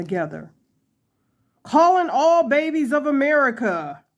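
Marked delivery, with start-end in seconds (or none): 1.6-4.0 mock announcement. Mock proclamation to all babies.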